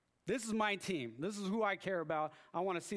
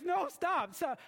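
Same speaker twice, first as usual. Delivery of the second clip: much higher, louder cry of stop; yelled stop; 10 semitones higher, 4 dB louder, slower than usual. Retold or imitated. Fan to coworker, a high retold yelled stop. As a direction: stop him, almost yelping. Refusing to hear the score.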